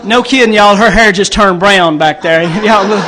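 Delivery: loud over the laughter; laughing loudly. Real, not acted. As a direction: shout it through your laughing. Crowd roaring, he laughs.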